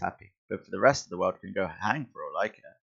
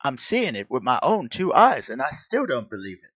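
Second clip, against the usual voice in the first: hammed-up American accent, pitched up; 4 semitones higher than usual. Onlooker amazed by Spider-Man, put-on American accent. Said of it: "I'm sorry for the American accents".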